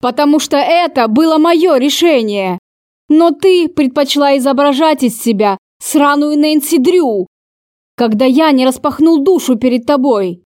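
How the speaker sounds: a lightly mocking, scornful spit of the words; mockingly spat. Lover mocking her for playing detective, understated scorn. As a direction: sneer at her as you throw it out. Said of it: "Издевательски выплюнул он".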